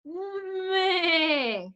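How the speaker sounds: bleating meh like a sheep; a crying sheep's meh. Shown as a demonstration. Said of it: "Or a sheep?".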